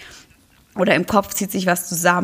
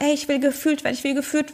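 put-on high, childlike plea, a bit softer; feeling as a child; 7 semitones higher, 4 dB quieter, faster than usual. The ignored feeling begging to be felt, high childlike plea. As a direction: plead like a neglected kid. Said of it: "das sagt".

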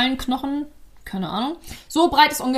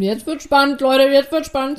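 excited build-up; 3 semitones higher, 5 dB louder than usual. Real, not acted. Teasing build-up, repeated.

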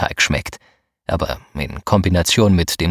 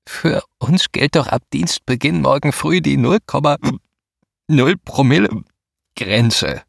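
tipsy slurred words, pitch higher; slurring drunk; 6 semitones higher than usual. Acted. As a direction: slur it like a tipsy young woman. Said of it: "lallte sie".

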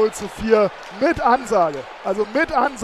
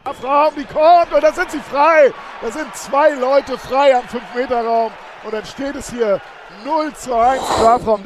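excited live commentary. Real, not acted. Live radio commentary of goals.

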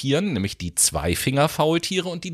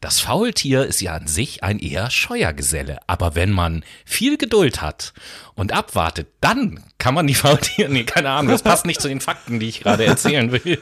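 nature documentary narration. Pretend. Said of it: "wie in einer Tierdoku vorlesen".

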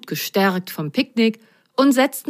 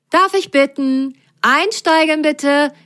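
Grasgrün voice; 10 semitones higher, 5 dB louder than usual. Acted. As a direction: announce boarding like a cheerful pilot. Pilot invites passengers aboard.

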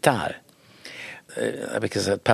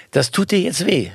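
insistent father; 8 semitones higher than usual. Retold or imitated.

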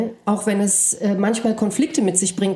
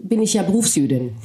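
ironic; 2 semitones lower, faster than usual. Real, not acted. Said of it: "etwas ironisch gesagt".

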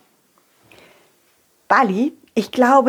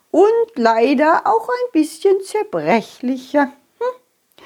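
put-on old fairy voice; slower than usual. Old fairy Frieda speaks.

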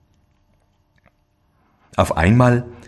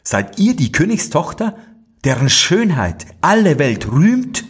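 higher, shocked question to the princess; startled exclamation; 8 semitones higher than usual. Acted. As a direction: cry out in dismay at her face. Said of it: "rief er aus".

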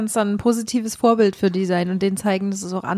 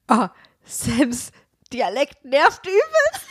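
mocking friend; 4 semitones higher, much slower than usual. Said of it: "sie meinte".

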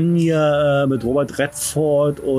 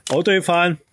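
terse telegram-style joke telling, higher; kurz und bündig; 4 semitones higher than usual. Retold or imitated. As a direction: imitate the wife's bare-bones reading, then pause. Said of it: "Meine Frau erzählt den so". (knapp und abgehackt vorgetragen)

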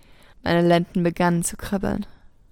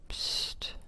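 breathy unvoiced shush against her lips; whispered hush; 15 dB quieter than usual. A narrator's reading. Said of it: "flüsterte er an meinem Mund".

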